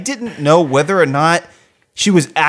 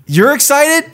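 high mock quote; 10 semitones higher, slower than usual. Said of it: "the famous Bob Costas line".

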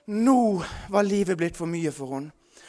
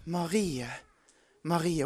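voice of Jesus; 2 semitones lower, 3 dB quieter than usual. Retold or imitated. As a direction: call her name gently, like a voice from heaven. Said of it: "Og den stemmen sa".

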